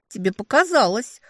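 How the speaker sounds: coldly. A narrator's reading. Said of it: "холодно ответила я".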